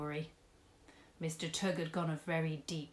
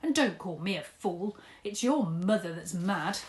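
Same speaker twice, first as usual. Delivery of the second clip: louder snappish comeback; angry retort; 6 dB louder than usual. Acted. Mister Tugg snapping back at Dad in the quarrel. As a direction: hit back at the insult.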